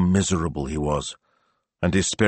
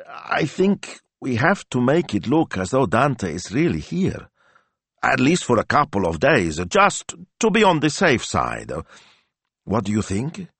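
put-on hesitant young sidekick; 7 semitones higher than usual. Hesitant Smilzo proposes plan.

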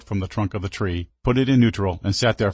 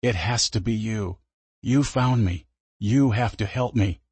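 low breathy voice; slower than usual. Acted. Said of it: "he said in a low, breathy voice".

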